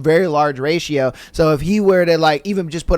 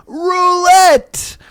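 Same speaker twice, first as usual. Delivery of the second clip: high, sustained booming call; booming yell; 10 semitones higher than usual. Acted. Unseen voice picks the game, booming yell. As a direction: boom it out as an order. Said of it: "booms the voice".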